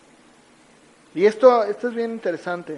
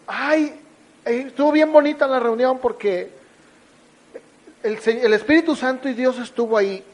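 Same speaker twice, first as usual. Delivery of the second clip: feligrés entusiasta; 3 semitones higher than usual. Retold or imitated. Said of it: "van a una iglesia y dicen".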